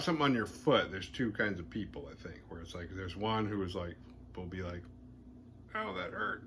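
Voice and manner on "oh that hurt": mock crying. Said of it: "and will cry".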